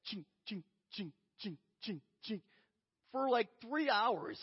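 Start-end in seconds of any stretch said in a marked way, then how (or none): 0.1-2.4 soft, evenly repeated chain-lift clinks; imitated coaster clanking. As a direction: imitate the click of a coaster climbing, softly. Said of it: "it's like".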